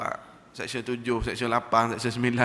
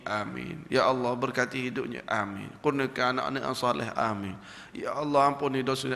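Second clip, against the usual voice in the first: prayer. Acted. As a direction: recite like a supplication, each amin dropping. Preacher recites a prayer.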